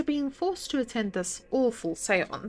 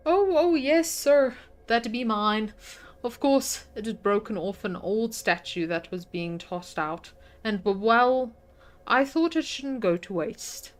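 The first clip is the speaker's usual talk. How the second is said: a lightly voiced, louder old housekeeper, devout and fussy; a hint of a chatty housekeeper; 5 dB louder than usual. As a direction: play the pious servant eager to please. Voices the housekeeper Mrs Joyce.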